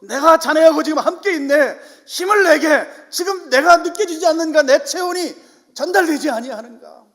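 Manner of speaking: loud, high encouraging voice of God. Acted. The Lord urging despairing Elijah to take heart, loud and high. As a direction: rouse him with God's full voice. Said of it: "주님이 오셔서".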